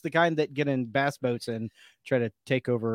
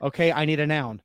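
normal talking voice

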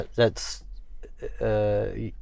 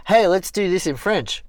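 playful suggestion; 9 semitones higher, 6 dB louder than usual. Pretend. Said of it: "I should say".

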